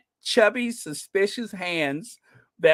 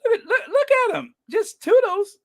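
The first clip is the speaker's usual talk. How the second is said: much higher, quick, laughing through it; laughing mockery; 3 dB louder than usual. Real, not acted. Mocking Andrew's smug wave, laughing and pitched up high. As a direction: laugh at him as you point.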